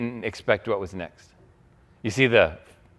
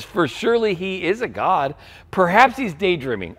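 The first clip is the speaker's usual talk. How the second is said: higher-pitched teasing taunt; mocking; 4 semitones higher than usual. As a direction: read it as mock speculation. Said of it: "Elijah began mocking them".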